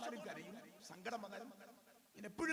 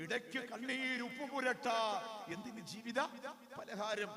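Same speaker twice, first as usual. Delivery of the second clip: lingering poetic delivery; poem recitation; 4 dB louder than usual. Acted. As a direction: recite it as poetry, pausing between phrases. Recites the verse again.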